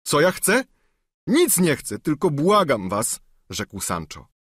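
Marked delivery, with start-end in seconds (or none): 0.0-3.2 higher, whining plea; pleading squire. Acted. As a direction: beg like a bruised peasant. Sancho voiced.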